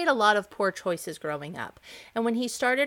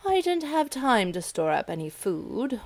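a touch higher, mild whine; whining grasshopper; 4 semitones higher than usual. Acted. The starving grasshopper excuses himself to the ants with a mild whine. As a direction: plead like a lazy bug with excuses. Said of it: "whined the grasshopper".

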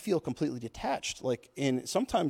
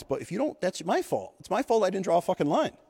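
voice cracking; 5 semitones higher than usual. Real, not acted. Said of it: "As my voice cracks here".

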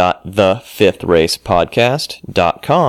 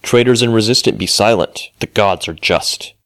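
booming arrogant alien overlord; 3 semitones higher than usual. Acted. Voice-over for a Stargate podcast promo.

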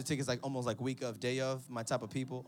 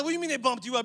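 mock shout; 9 semitones higher, 9 dB louder, much faster than usual. Brothers arguing on the phone.

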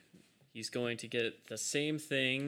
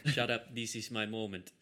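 in-character retort. Acted. Retake in character after "Sorry.

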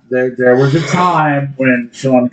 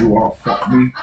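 Sean Connery impression; 3 semitones lower than usual. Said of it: "Sean Connery saying that".

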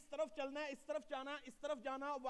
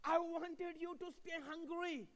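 very slow emphatic line; much slower than usual. Real, not acted. Preacher slows for emphasis.

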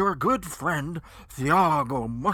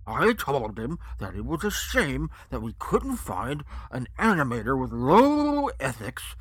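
patronizing; 6 dB louder than usual. Acted. Chinless henchman explains to reassure the guest, loudly patronizing. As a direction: talk down to him, stretching key words. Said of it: "saying in a patronizing tone".

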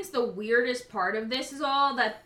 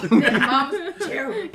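put-on southern black accent; 2 semitones higher than usual. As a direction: echo it as big mama. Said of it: "in her big mama voice".

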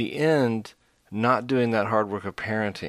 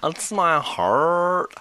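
over-earnest gushing, slow and higher; mock passionate voice; 4 semitones higher, slower than usual. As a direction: ham up a passionate zealot. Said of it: "I don't ever think in that voice".

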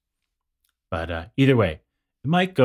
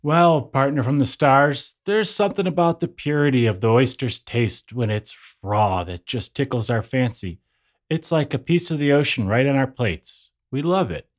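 put-on folksy, easygoing old-time New Yorker; lightly voiced cheerful local; 3 semitones higher than usual. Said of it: "a New Yorker around the turn of the twentieth century".

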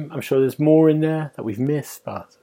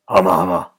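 buzzer noise; 5 semitones lower, 5 dB louder than usual. Shown as a demonstration. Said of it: "And mine was".

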